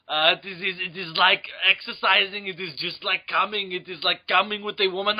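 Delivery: mock Austrian action-star accent; Arnold Schwarzenegger. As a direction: do a jokey muscleman movie voice. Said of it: "Pumping Iron".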